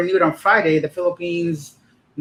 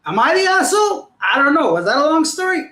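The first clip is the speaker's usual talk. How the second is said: playful question; 10 semitones higher, 5 dB louder than usual. Real, not acted. Asking viewers for judgement.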